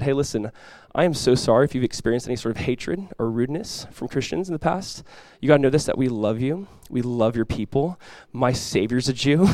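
softly spoken, earnest reassurance; retold sincere apology. Pastor retelling his apology to the rabbi, soft sincerity.

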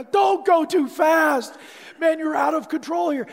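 frantic self-warning yell; panicked shout. Retold or imitated. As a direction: shout over the wind. Yelling to himself on the luge.

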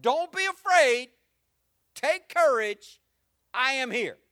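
slow, loud, high proclamation, each phrase hammered; proclaimed loudly. Shown as a demonstration. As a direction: call it out to the whole church. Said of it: "Put that last part".

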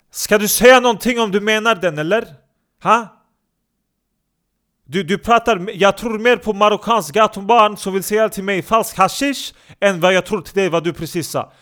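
loud, high scornful challenge; angry hothead. Acted. Tough guy scorning Danny's answer loudly. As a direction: sneer at him and shout.

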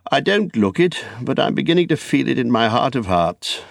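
put-on high-pitched, weary old hobbit; aging hobbit's high character voice; old Bilbo. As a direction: confide your age to an old friend, voice lifted high.

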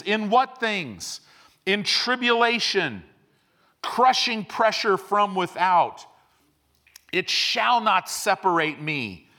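impassioned pulpit declaration; fiery preaching. Real, not acted. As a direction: preach it with full conviction. Preaching at full force.

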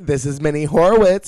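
loud announcer name drop; male announcer voice. Pretend. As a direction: announce "Horowitz" big and booming. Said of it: "male straight announcer voice".

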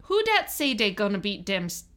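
New Orleans Yat with D for TH; Yat accent. Shown as a demonstration. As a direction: dat and dem, Saints chant. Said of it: "The T H sound is pronounced as D".

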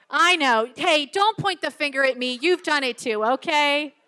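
loud, teasing self-defense; playful scolding. Real, not acted. Speaker to laughing audience, playful loud scolding. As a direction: call the crowd out in jest.

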